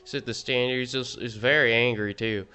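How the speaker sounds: hammed-up Southern accent, lightly voiced. Gamer ranks cards in a put-on Southern accent. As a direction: play a smug Southern know-it-all. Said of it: "I'm doing the southern accent".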